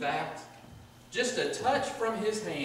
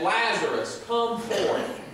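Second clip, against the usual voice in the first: loud, raised call into a tomb; commanding call; 4 semitones higher, 5 dB louder, slower than usual. Acted. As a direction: summon him out with a high, ringing command. Calling a dead man from tomb.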